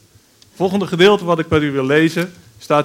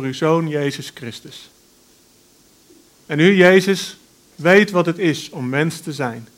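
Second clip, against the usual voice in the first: unhurried, earnest prayer voice; spoken prayer. Acted. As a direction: pray aloud for the congregation. Leads the congregation in prayer.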